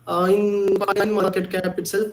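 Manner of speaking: choppy, time-smeared echoing line; lagging voice. Real, not acted. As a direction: voice smearing on a laggy call. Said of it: "my voice is lagging".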